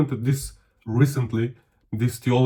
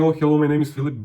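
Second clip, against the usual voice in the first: quick, breezy introduction; hurried hello with no gap; self-focused greeting; 3 semitones higher, faster than usual. Shown as a demonstration. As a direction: rattle off your own name in one go. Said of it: "instead of saying".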